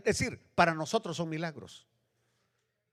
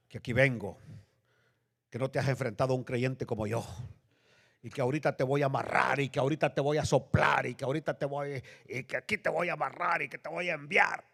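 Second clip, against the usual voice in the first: fast, rattled-off bragging; mock boasting; 3 semitones lower, faster than usual. Preacher imitates boastful believer threatening demons, fast mock bragging. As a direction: pile up big threats in a mocking rush. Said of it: "que habla grandezas".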